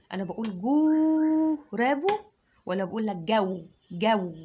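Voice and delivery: جو short versus long; contrasting vowel length. Shown as a demonstration. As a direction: ask which sounds right. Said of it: "هي الواو هنا مد". (جو بمد ولا بدون مد)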